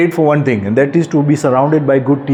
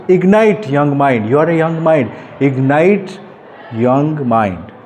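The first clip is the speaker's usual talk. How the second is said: slow, weighty poem reading; poem recital; slower than usual. Acted. Speaker reciting his own poem to teenagers, slow and solemn. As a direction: recite each word slowly like a call to wake up.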